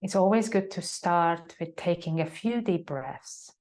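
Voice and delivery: calm, unhurried yoga teacher guiding reflection; measured meditation guide with long silences; guided meditation. Acted. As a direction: settle them into stillness, leaving long pauses between phrases. Leads a meditation.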